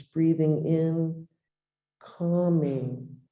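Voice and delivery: spacious, unhurried breathing cues; guided meditation. Acted. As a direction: guide them gently, pausing after each phrase. Guides listeners through the words.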